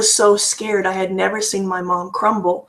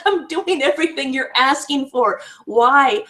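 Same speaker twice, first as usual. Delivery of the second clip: higher-pitched retelling of a fed-up parent; exasperated pleading; 4 semitones higher than usual. Retold or imitated. Mother to demanding teenage daughter, retold exasperation. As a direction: imitate a parent at wits' end, pitched up.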